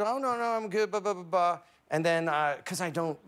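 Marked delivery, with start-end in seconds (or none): 0.0-1.6 polite refusal. Retold or imitated. Retold polite refusal of invitation.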